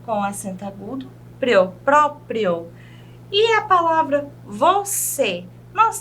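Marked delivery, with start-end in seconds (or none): 1.4-2.7 próprio, slow, with the open pró drawn out; showing open pró. Shown as a demonstration. Teacher showing students the open pró, slowly. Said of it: "nós temos aqui o pró bem aberto".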